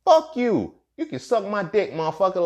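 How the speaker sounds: high-pitched, loud opening burst; defiant outburst. Acted. Acted defiance to imagined detractor.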